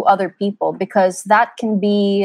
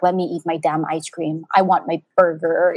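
mock grumpy protest; 4 semitones lower than usual. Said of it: "And I would just be like".

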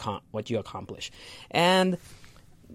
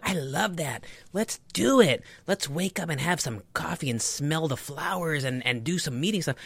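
higher, chirpy and cheerful; perky morning person; 5 semitones higher than usual. Pretend. Eager coworker welcoming a six AM meeting, chirpy and higher. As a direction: gush like an eager early riser. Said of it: "perky people like".

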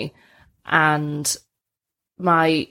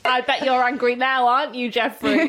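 lightly put-on higher puppet voice; imitating puppet dialogue; 5 semitones higher than usual. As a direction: mimic a children's show character, pitched up. Quoting the episode's puppet dialogue.

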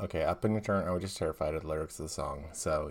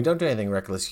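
mock stern warning; 4 semitones higher, 8 dB louder, faster than usual. Mocking Edward's warning.

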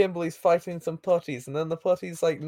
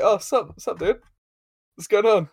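higher, offhand dude-style hello; casual greeting; 5 semitones higher, 3 dB louder than usual. Retold or imitated. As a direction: greet a villain like a buddy, pitched up. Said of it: "he just kind of casually is like".

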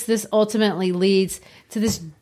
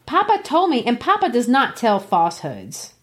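put-on a touch of a girl's high protest; girl insisting, pitch jumping up; indignant girl; 4 semitones higher than usual. Cathy defends her father.

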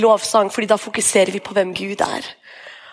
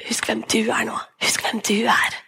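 gentle God voice; 3 dB quieter than usual. Retold or imitated. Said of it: "flyr inn og sier".

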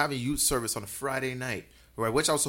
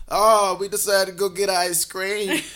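laughing; 6 semitones higher, 8 dB louder, slower than usual. Retold or imitated. Drunk excuse, laughing.

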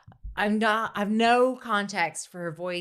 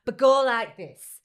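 louder, mildly impatient correction; imitated coaching mother; 4 dB louder, slower than usual. Mother corrects her son's crying for camera, mock insistent. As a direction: mimic a mum directing a take. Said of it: "And she's like".

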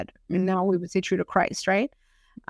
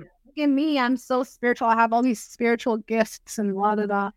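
put-on spiritual braggart; mock bragging. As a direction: show off in mock self-importance. Acting out people wanting glory.

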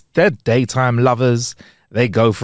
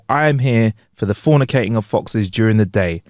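Marcus Bronzy. Retold or imitated. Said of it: "I hear Marcus Bronzy say".

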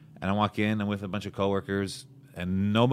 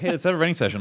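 mock cheerful invite; 8 semitones higher, 6 dB louder, faster than usual. Mocking eager comics.

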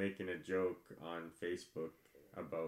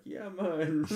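higher-pitched, eagerly acted greeting; put-on excitement; 7 semitones higher, 4 dB louder than usual. Comedian retelling his drive-thru order, acting all excited. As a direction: act all excited, voice lifted. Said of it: "acting like I was all excited".

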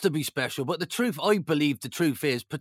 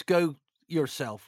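lightly put-on silly voice, drawn out; slower than usual. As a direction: imitate his silly insult, slowly. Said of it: "saying in a silly voice".

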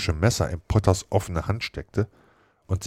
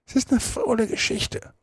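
gruff retort. Acted. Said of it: "entgegnete der Joe grob".

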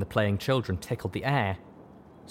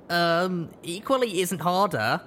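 put-on higher, sceptical young filly; unimpressed filly; 9 semitones higher, slower than usual. A narrator's reading. Rush dismissing her brother's second try. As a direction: shoot him down again. Sister answers colt.

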